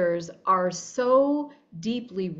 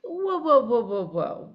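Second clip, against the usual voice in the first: alarmed whoa; 4 semitones higher than usual. Retold or imitated. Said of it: "And I'm like".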